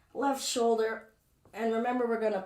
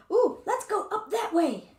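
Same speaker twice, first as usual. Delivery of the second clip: higher, louder, eager voice; eager body memory; 11 semitones higher, 6 dB louder than usual. Pretend. Teacher voicing her body's eager memory, bright and high. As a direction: sing out like an excited body part. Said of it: "that is saying".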